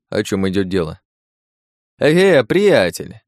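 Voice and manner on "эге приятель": high, drawn-out "aha"; knowing pickup. A narrator's reading. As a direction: seize on it with a long, raised exclamation. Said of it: "подхватил подьячий". (протяжный высокий возглас с подковыркой)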